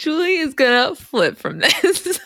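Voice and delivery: said through a laugh; laughing and slow. Real, not acted. Laughing with co-host.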